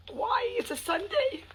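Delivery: high, incredulous why; exasperated. Real, not acted. Annoyed vlogger complaining about Sunday night yelling. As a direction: throw up your hands at the noise.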